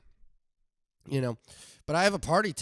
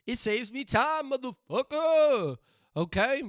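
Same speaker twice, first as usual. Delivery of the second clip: defiant retort; 8 semitones higher, 4 dB louder than usual. Acted. Retort to DoorDash critics.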